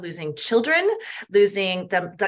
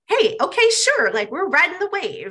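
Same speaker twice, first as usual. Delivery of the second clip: cheery; 4 semitones higher, 4 dB louder than usual. Retold or imitated. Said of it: "bring fun and like".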